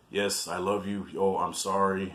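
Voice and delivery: low-key imitation of lovers reconciling; mock making up. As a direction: say it small and subdued, imitating a tame exchange. Mimics the couple's tame making up.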